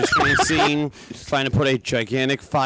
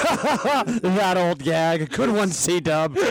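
laughing; much slower than usual. Retold or imitated. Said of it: "We're like".

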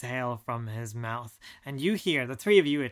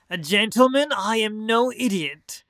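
indignant; 7 semitones higher, 7 dB louder than usual. Acted. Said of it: "you hear a voice".

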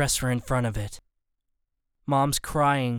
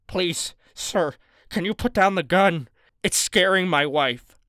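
a touch higher, nervous begging voice; pleading husband; 4 semitones higher than usual. A narrator's reading. Mister Borden asks the gunman to put down the gun. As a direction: ask gently, trying not to provoke.

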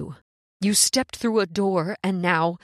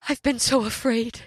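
tearful pleading; 2 semitones higher than usual. Acted. Woman overcome, pleading.

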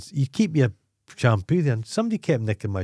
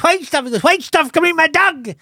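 loud, very high mock panic; hammed-up shriek of alarm; screaming; 7 dB louder than usual. Another junkie joining in the alarm over the dog, screaming. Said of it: "the woman starts screaming".

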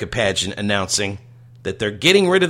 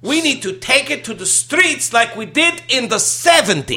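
high-pitched mimicry of a fed-up actress; Carol Kane; 12 semitones higher, 3 dB louder than usual. Host repeats the sitcom line, high mock protest. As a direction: repeat the rallying cry in a high, put-on voice. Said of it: "Carol Kane says she's fed up".

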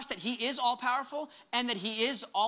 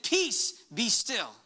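Jesus commanding the waves; much slower than usual. Acted. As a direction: call out over the storm. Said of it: "he stood up and he said".

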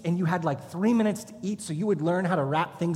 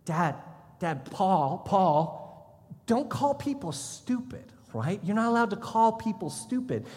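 put-on child's voice; 3 semitones higher than usual. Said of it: "he'd be like".

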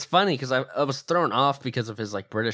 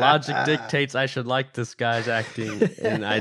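laughing. Real, not acted. Laughing at his own change of heart.

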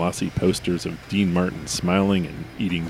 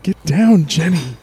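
put-on old prospector; 10 semitones higher, 7 dB louder than usual. Frontiersman command.

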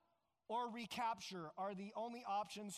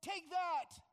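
loud, higher jeering cry; defiant taunt; 7 semitones higher, 5 dB louder than usual. Retold or imitated. Israelites jeering at Pharaoh while leaving, defiant loud taunt. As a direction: fling it over your shoulder. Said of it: "High hand, defiant".

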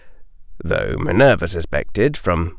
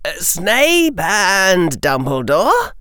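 put-on higher, puzzled boy's voice; a confused, apologetic boy; young Harry voice; 9 semitones higher, slower than usual. Harry answers hesitantly.

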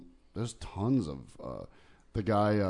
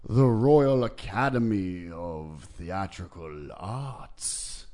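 pompous old Brit, lightly voiced; wobbly elder British voice. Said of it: "the wobbly elder British voice".

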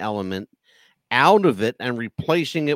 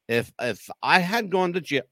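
talking through a hiccup; 3 semitones higher than usual. Real, not acted. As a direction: caught by hiccups mid-sentence. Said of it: "I got a little hiccup".

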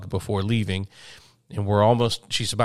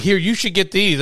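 imitating child; 9 semitones higher, 4 dB louder than usual. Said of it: "She's like".

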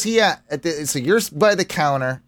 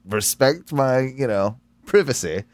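low mock proclamation; a hint of a barbarian warlord; 6 semitones lower than usual. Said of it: "my declaration to the squirrel".

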